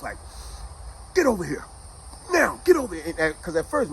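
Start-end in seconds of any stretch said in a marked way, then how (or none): 1.1-3.0 raised, commanding call; stern father. Retold or imitated. Father in the doorway with hands on hips, stern call. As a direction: order him over, pushing harder on the repeat. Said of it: "father comes stand in the doorway".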